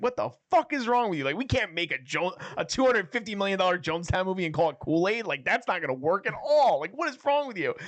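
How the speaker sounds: high-pitched mock outrage; retold freak-out. Retelling her freaking out on Seth, mock outrage. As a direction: rant in disbelief, pitch swooping up. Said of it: "she freaks out on Seth".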